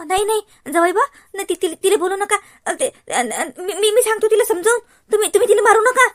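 loud stammering sobbing plea; tearful pleading. Acted. Aunt begging son-in-law not to hit the girl, tearful and loud. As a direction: beg through tears, stammering.

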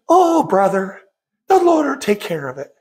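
a lightly imitated easy, unconcerned brush-off; calm, unbothered. Imitating friend soothing a fuming driver, mild calm unbothered tone. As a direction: mimic a friend who shrugs it off without a care. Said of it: "calm, cool, I don't care voice".

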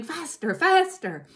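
high, frantic, building yell; shouting. A narrator's reading. Boggis driving the men on, frantic high shout. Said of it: "hopping about like a dervish and shouting".

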